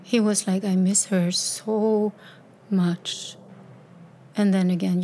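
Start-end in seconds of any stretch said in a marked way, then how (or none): 0.6-3.4 tearful, slow. Retold or imitated. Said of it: "he began to cry".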